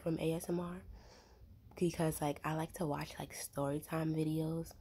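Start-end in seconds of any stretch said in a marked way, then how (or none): 2.4-4.7 talking with food in mouth; words round a bite of food; mouth full. Real, not acted. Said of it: "I just ate earlier, so there was, like, something in my mouth".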